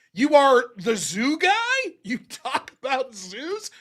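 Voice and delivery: slow, drawn-out disbelief with a laugh; incredulous mock question. Host to listeners, mocking the zoo guy job in slow disbelief. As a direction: spell out the absurdity slowly.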